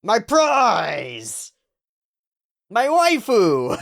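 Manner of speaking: shouted, gushing over the heroine; excited anime fan. Pretend. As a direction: yell it like a thrilled fan claiming his girl. Shouting over anime character's love.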